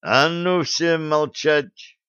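slow, heavy angry order; thundering command. Acted. Blad bangs the table and orders everyone silent, slow and angry. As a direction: slam it down like a fist on the table. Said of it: "грохнул по столу кулаком Блад".

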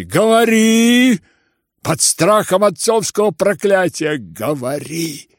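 high, loud, slow roar. Acted. General to his son, roaring. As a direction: bellow the command. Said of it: "ревел генерал и в совершенном исступлении".

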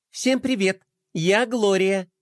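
a hint of a bright girl greeting; lightly voiced girl. Gloria greeting the toys, lightly bright. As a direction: introduce yourself confidently. Sister introduces herself.

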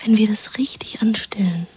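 conspiratorial whisper. Acted. Woman plotting escape with her lover: whisper. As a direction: plot it under your breath.

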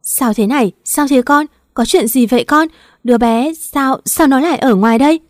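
high, loud, frantic questions; mother-in-law panicking at the scene; stammering panic. Acted. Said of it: "lắp bắp nói". (lắp bắp hoảng hốt, giọng cao và to)

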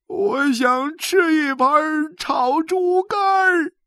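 high, loud, slow crying lament; wailing old man. A narrator's reading. Xu Sanguan wails to his wife, loud and slow. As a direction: wail out his despair. Father weeps his wish.

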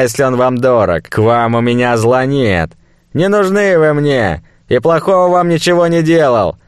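cornered slaver, scoffing; nervous fat merchant. Acted.

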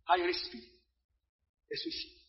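very soft, fading to a whisper; hushed, ominous repeat; hushed warning. Real, not acted. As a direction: let it sink away almost voiceless.

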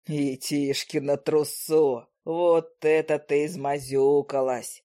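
low, slow, amazed man's voice; low, slow astonished giant; big man marvelling. A narrator's reading. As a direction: boom out mock astonishment. Grae laughing at her mess.

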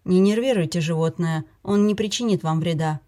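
calm soothing. Acted. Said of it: "спокойным голосом увещевал Филипп".

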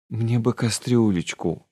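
slow, mildly pleading request; a small humble plea, understated; plaintive. Acted. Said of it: "жалобно сказала Фамка".

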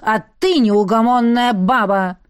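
put-on a touch of a bark from the old elder; barked retort. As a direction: snap back at her. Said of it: "рявкнул староста".

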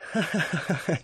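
quiet airy laughter; soft burst of laughter. A narrator's reading. Rosemary laughs at Elmeric's pretended ease, softly. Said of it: "она расхохоталась".

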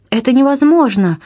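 a high loud nervous outburst; overwrought exclamation. A narrator's reading. Duchess cries out at the captain in nervous agitation. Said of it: "воскликнула герцогиня в порыве крайнего нервного возбуждения".

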